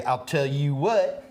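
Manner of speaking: slow Texas drawl, lightly put on; deep south accent. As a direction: drawl it like an old Texan. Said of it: "deep Southern drawl".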